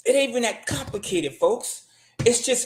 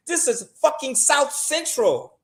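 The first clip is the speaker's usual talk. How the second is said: laughing; 5 semitones higher, slower than usual. Real, not acted. Laughing at his own story.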